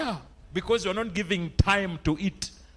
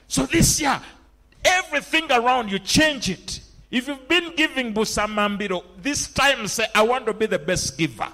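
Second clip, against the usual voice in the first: raised-pitch sermon exhortation; fervent preaching; 7 semitones higher, 4 dB louder than usual. Acted. Preacher telling the church to change everything this year, fervent preaching. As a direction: urge the congregation on from the pulpit.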